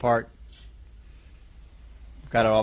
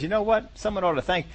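higher, indignant demand to be thanked; entitled complaint; 5 semitones higher than usual. Acted. Worker at his job demanding thanks, mock indignant and higher. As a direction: whine that nobody noticed your hard work. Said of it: "we sometimes get that attitude that says".

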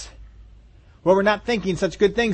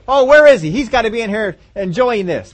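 eager father; 5 semitones higher, 6 dB louder than usual. Retold or imitated.

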